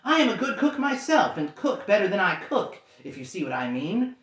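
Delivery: breathless pleading. Acted.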